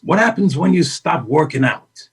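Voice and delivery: slow, deliberate Pacino drawing out atrophy; Al Pacino impression. Pacino explaining atrophy to her, slow emphatic imitation. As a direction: hammer the lesson home like an intense mentor. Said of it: "your imitation is genius".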